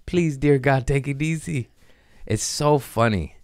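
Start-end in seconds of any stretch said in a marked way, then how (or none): 0.0-1.7 high, pleading mock panic; panicked pleading. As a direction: beg for mercy in a high scared voice. Begging Mother Ayahuasca retold.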